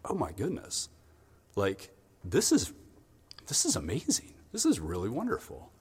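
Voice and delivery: hushed amazement with halting pauses; awed student. Acted. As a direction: marvel at a first look through a microscope. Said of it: "you're like".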